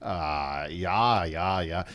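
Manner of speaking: lightly put-on German "ja, ja"; German accent. Guest asked for a German accent, tries it lightly. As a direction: slip into a mild German accent. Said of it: "Can you do a German accent?".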